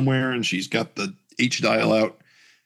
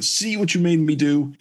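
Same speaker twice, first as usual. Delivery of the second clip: dragon creature; 7 semitones higher than usual. Acted. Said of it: "shapeshifts into a large dragon creature".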